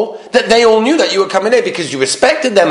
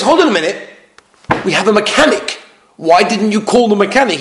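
acted exasperation; 4 semitones higher than usual. Husband answering wife's complaints.

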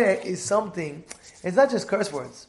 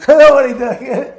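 laughing; 5 semitones higher, 12 dB louder, slower than usual. Real, not acted. Laughing at the creamer joke.

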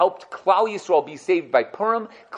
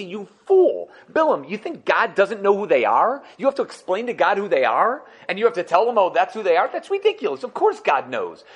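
exasperated rebuke, pitch jumping way up on the outbursts; Medrash goes crazy; 3 semitones higher than usual. Retold or imitated. Teacher voicing the Medrash scolding Bilam, exasperated. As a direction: scold Bilam like he's a fool, voice spiking. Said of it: "And the Medrash goes crazy".

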